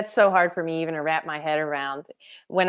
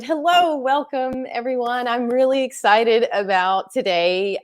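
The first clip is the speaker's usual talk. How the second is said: excited welcome; 5 semitones higher, 4 dB louder than usual. Real, not acted. Host opening live show.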